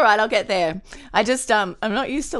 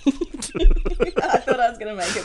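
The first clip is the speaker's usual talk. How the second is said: laughing; 2 semitones higher than usual. Real, not acted. Laughing after reading.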